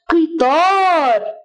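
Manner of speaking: قطار very slowly with a clear ق; slow articulation. Shown as a demonstration. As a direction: stretch قطار for the class. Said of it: "مثل كلمة إيه؟". (نطق قطار ببطء)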